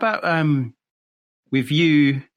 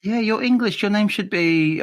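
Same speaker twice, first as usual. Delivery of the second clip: mildly hammed-up confusion, pitched higher; baffled Americans; 8 semitones higher than usual. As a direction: imitate a puzzled listener insisting. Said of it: "they just couldn't comprehend it at all".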